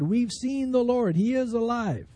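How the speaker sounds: emphatic retold proclamation. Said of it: "They've all emphatically said".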